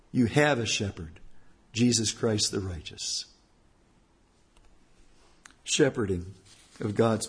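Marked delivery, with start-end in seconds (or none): none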